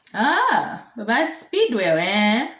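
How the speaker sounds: loud, drawn-out elder's recognition; ancient phone voice. Acted. Minister recognises the reporter, slow ancient voice. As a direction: play an old minister placing a name. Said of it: "phone voice to sound very cracky and horsey and ancient".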